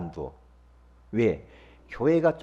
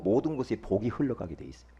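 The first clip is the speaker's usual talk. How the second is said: ordinary talk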